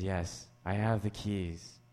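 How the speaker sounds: hammed-up low mentor voice from an old dubbed film; mysterious mentor. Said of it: "He says".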